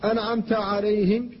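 "عليهم" with a light unvoiced ه; soft ha. Shown as a demonstration. Teacher shows the correct "عليهم". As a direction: breathe the ه of "عليهم". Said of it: "فقل".

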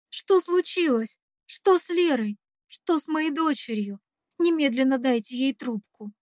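put-on mother half shouting into the phone for her child; panicked shout. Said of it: "Невольно срываюсь на крик".

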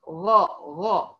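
غا drawn out slowly from the throat; ghayn demo. Shown as a demonstration. Teacher isolating the letter ghayn. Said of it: "الغين من المستعلية المنفتحة".

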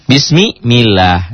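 very slow "Bismillah" with a thin, light lah. Shown as a demonstration. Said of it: "berbaris kasrah jadi tipis".

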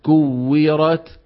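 "كورت" slow, weak breath on the k; correct kaf. Shown as a demonstration. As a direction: give "كورت" a light k, syllables stretched. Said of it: "الصواب كو".

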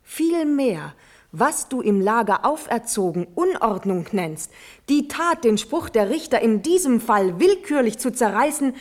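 impassioned pleading to the uncle; passionate plea. Acted. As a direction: fight for his life with every word. Natalie passionately pleads with the Elector.

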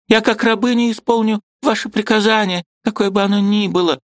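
высокий умоляющий женский голос; покорно моли о приказе; покорная жена. A narrator's reading. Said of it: "с отчаянием проговорила". (высоко, смиренно, как рабыня)

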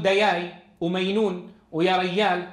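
"دياي" and "مينون" with y for every j; jim turned to ya. Shown as a demonstration. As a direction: say y in "دياي", "مينون", "ريال" where j belongs. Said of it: "يقلبون الجيم ياء". (نطق "دياي ومينون" بقلب الجيم ياءً)

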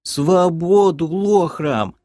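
high, drawn-out creature squeak; yelped slogan. A narrator's reading. Creature huddled at a friend's leg, yelped slogan. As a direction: pipe up plaintively with a rallying cry. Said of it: "вякнул прижавшийся к моей ноге лохар".

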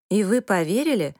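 breathy hushed whisper with a sceptical lift. A narrator's reading. Whispering to her parents about her sister's engagement. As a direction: lean in and breathe the doubt to your parents.

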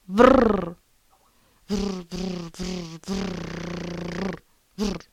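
playful animal growls, first one loud; mock growling. Angry vlogger growling at her camera. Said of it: "Jestem zła".

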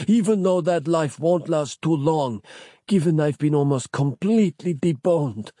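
dying man voice. A narrator's reading. Capello dying voice continues.

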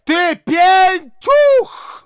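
high, loud, slow shriek; shrieking at her son. A narrator's reading. Mother shrieking at her grown son, loud and high. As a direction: shriek it down at him. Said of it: "продолжала она вопить".

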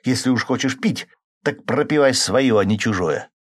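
hint of fight in a wife's voice; militant edge. A narrator's reading. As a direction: stand up to him fiercely. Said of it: "воинственные нотки".

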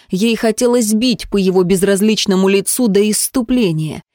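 plain reading voice

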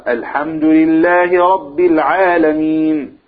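slow chanted verse; Quran recitation. Shown as a demonstration. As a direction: recite it slowly like an imam. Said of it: "فإذا قال".

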